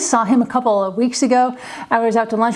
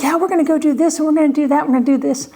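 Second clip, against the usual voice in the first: higher, offhand promising relative; breezy relative promising; 4 semitones higher, faster than usual. Retold or imitated. Parent mimicking relatives making empty promises. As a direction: rattle off empty promises lightly. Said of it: "family members would always be like".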